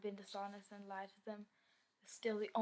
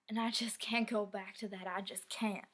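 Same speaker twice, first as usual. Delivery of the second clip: raised voice, pleading with himself; louder on the first refusal, then easing off; desperate refusal; 6 dB louder than usual. Acted. Man refusing to go back to where he started, desperate. Dreading a return to poverty.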